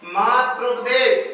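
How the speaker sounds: मातृपदेश said slowly, each syllable laid out; slow demo. Shown as a demonstration. Teacher to students spelling out the joined word, slow. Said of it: "मातृधन उपदेश बराबर".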